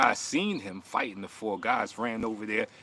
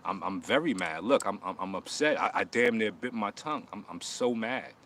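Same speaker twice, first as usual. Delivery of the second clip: deadpan mock fury, not angry at all; sarcastic fake anger. Mocking a viewer online with deadpan pretend anger. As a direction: say you're furious while staying calm. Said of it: "Let me make my mean face".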